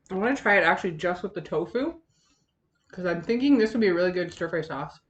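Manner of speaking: talking with a mouthful; words round a bite of food; mouth full. Real, not acted. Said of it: "I'm talking with my mouth full and I sound gross".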